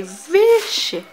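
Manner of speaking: sudden high loud Vixe; delighted exclamation. Real, not acted. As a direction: burst out in happy surprise. Excited showing off outfit.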